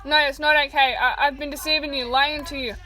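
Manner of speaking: loud, anguished protest; loud despair, admitting to lying; despairing insistence. Acted. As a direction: push back, full of guilt.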